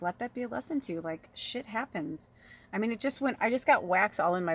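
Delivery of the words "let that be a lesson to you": loving version. Shown as a demonstration. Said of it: "in a loving way".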